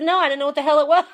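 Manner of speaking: fast, laughing through the words; giggling disbelief, quick and light. Retold or imitated. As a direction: rush it out mid-laugh. Laughing while retelling own answer.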